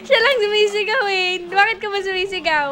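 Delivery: high, playfully defensive voice; mock protest. Parent denies fault to shouting baby, mock protest. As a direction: argue back at the baby in pretend hurt.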